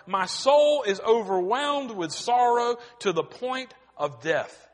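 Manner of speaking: a touch of anguished crying out; lightly voiced sorrow, not full weeping; mild lament. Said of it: "he cried out in the garden".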